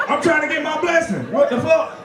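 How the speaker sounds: high, exasperated demand; mock outrage. Churchgoer trying to get his blessing, high mock outrage. Acted desperate donut demand.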